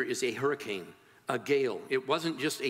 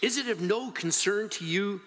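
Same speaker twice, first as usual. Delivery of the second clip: mildly indignant, raised-pitch plea; accusing appeal; 4 semitones higher than usual. Acted. Disciples confronting Jesus as they drown, accusing appeal. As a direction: press the question as an accusation. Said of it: "It's an accusation as well as, as an appeal".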